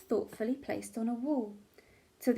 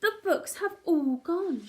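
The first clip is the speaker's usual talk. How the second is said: put-on upset child crying out; 5 semitones higher than usual. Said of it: "cried out Peter".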